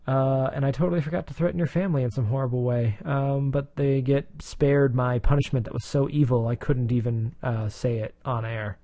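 hammy golden-age comic dialogue; Jim Gordon. Retold or imitated. Mocking Jim Gordon in old comic.

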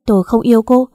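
loud, domineering rebuke; angry outburst. Acted. Husband tells wife to shut up, angry outburst. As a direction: silence them, then stake a forceful claim.

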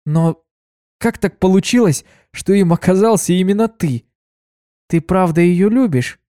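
sweet surprised greeting; cheerful mare voice. Acted. Kuna greets her friend Ditsy, high and sweet.

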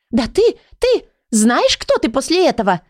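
high, spluttering outrage; indignant. A narrator's reading. Leonila squabbles with the law book, indignant. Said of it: "возмутилась Леонила".

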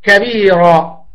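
كبيرة drawn out slowly, each sound clear; slow teaching example; slow example word. Shown as a demonstration. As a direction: spell out كبيرة slowly for students. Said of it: "مثل".

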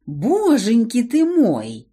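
slow, joyful exclamation; delighted. Acted. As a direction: greet old friends with delight. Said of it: "так радоваться".

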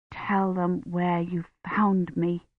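soft, slow inner plea; silent urging. Acted. Kivrin inwardly urges Gawain, soft and slow. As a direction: think it at him under your breath.

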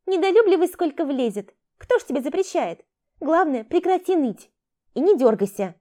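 high, loud, irritated grumble. Acted. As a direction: scold him, losing patience. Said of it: "раздражённо буркнула Яшма".

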